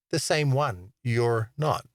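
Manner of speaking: slow, deliberate teasing retort; measured, tongue-in-cheek jab; cheeky comeback. Retold or imitated. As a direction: draw out a cheeky reply. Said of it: "I reply cheekily".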